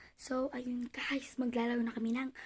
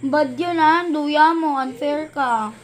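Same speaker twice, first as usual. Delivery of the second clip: accusing; 3 semitones higher, 17 dB louder, slower than usual. Real, not acted. Loudly accusing cheating.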